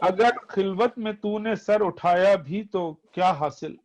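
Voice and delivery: poetry recitation. Acted. Reciting verse.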